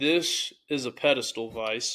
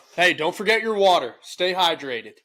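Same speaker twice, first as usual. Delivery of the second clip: loud, high-pitched hollered yell; 6 semitones higher, 7 dB louder than usual. Telling the other speaker to drink water, yelling. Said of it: "Why are you yelling at me?".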